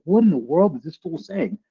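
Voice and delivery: like hearing nonsense on TV; baffled disbelief. Retold or imitated. Someone on TV talking nonsense, mock baffled disbelief. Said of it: "you're like".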